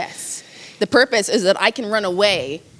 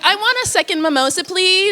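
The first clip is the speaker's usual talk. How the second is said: higher, airy first-class request; a pampered traveller ordering a drink, higher voice; posh passenger; 9 semitones higher than usual. Pretend. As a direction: ask the flight attendant sweetly for more. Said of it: "I'm here being like".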